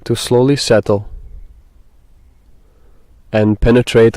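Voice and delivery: measured meditation guide, long pauses between phrases; guided meditation. Acted. Guide asks listeners to breathe and settle, guided meditation. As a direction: lead them gently through it, leaving space.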